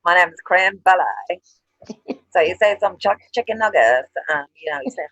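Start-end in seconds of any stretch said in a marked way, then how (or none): 0.0-1.4 mimicking a Korean speaker saying Billy like belly, slowed a little; lightly put-on Korean accent, drawn out; mock Korean accent. Friend teasing the Korean's Billy, in a mock Korean accent. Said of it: "it's like".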